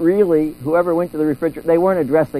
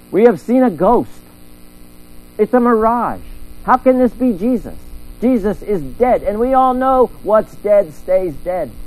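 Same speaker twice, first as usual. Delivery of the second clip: panicked disciples; 4 semitones higher than usual. Acted.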